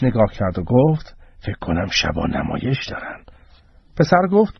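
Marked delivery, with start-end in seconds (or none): 1.4-3.2 low, soft aside; confidential aside. Acted. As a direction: lower your voice and speculate discreetly. Mother confides, looking around. (آهسته و محرمانه)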